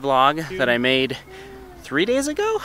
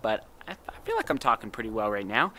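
numb mouth after dentist; slightly slurred numb lips; 4 dB quieter than usual. Real, not acted. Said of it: "mouth is numb".

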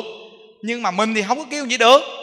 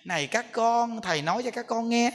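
mock preaching voice; 2 semitones higher, 4 dB quieter than usual. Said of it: "khi mới đắp y lên, lên ngồi nói chuyện à".

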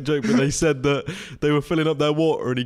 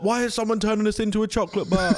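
high, complaining penguin voice; bewildered penguin; 8 semitones higher than usual. Acted. Penguin wondering about the chocolate bar, high-pitched complaint. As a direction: ask it high as a baffled penguin. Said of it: "What would a penguin say?".

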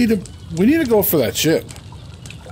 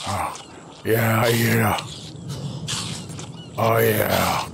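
whisper; 5 semitones lower, 8 dB quieter, slower than usual. Real, not acted. Whispered while eating.

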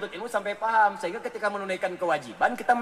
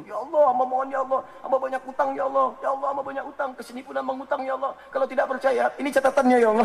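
higher, insistent begging to God; pleading debtor; 5 semitones higher, 4 dB louder than usual. Retold or imitated. Debtor at Muzdalifah begs God to pay his debts, mock-desperate higher plea. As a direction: mock-desperate plea, waving the debt list.

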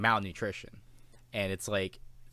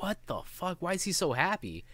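a viewer baffled by the cheerful man, asking in high disbelief; incredulous outburst; 7 semitones higher, 3 dB quieter than usual. Retold or imitated. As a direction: pitch jumps higher on the stunned question. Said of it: "And you're just like".

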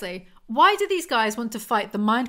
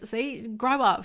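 scornful; much slower than usual. Pretend. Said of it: "She sounds like a child".

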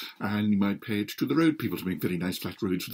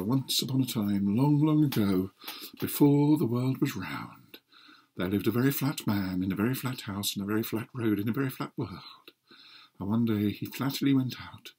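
fairy tale storyteller. Acted. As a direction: draw listeners into the tale. Starts telling the story.

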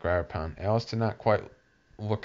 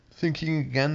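high Duchess voice; 8 semitones higher, 3 dB louder than usual. A narrator's reading. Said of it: "the Duchess said".

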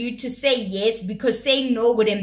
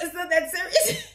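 higher, airy dismissive quote; mock Toyin; 6 semitones higher than usual. Vlogger voicing Toyin reassuring Faith, dismissive. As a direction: brush it off as Toyin. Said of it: "Toyin is like".

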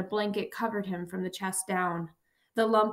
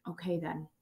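faint, much softer whisper; 3 semitones lower, 7 dB quieter than usual. Acted. Dying professor to his student, a soft whispered farewell. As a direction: let it fade to a breath. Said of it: "he whispered".

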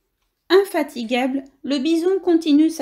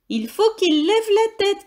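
shouted order; 8 semitones higher than usual. Acted. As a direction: call it down so everyone hears. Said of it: "crie Billy".

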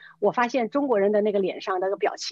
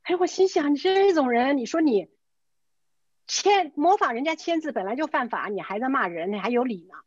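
retold indignation, pitched up at first; indignant outburst; 4 semitones higher than usual. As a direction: scold him in disbelief, starting high. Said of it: "我一听我特火大".

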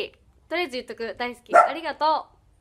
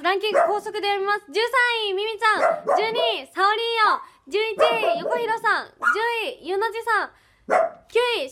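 速読み; 5 semitones higher than usual. Real, not acted.

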